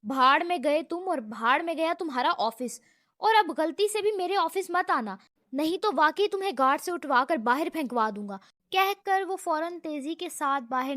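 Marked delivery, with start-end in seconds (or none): 0.0-8.4 louder, fast furious parting threat; trembling fury. Acted. Brother, furious, curses his brother and storms out. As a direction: spit the last threat and storm out. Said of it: "ابرار نے غصے سے تھرتھراتے ہونٹوں کے ساتھ کہا".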